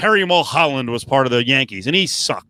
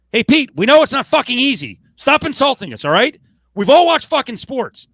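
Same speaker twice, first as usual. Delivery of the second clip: high, loud, fed-up outburst; ranting at the coach, high and loud; exasperated rant; 9 semitones higher, 3 dB louder than usual. Real, not acted. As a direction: tell the coach off. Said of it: "my little rant".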